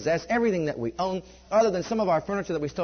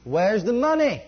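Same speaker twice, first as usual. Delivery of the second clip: incredulous echo; 5 semitones higher, 6 dB louder, slower than usual. Retold or imitated.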